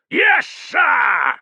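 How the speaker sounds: high, loud unison reply; soldiers shouting back. Acted. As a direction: answer the commander as one. Soldiers answering commander.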